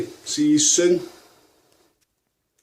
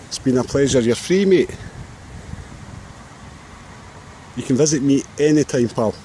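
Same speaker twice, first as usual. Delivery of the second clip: raised voice, calling across open ground to a seagull; calling out to the bird. Real, not acted. Calling farewells to seagull outdoors.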